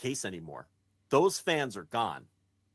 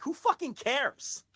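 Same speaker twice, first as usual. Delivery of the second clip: dismissive; 13 semitones higher, slower than usual. Retold or imitated. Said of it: "we're like".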